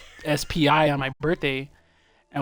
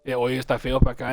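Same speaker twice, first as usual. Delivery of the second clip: grandpa's words; 2 semitones lower, 4 dB louder, faster than usual. Retold or imitated. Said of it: "He was like".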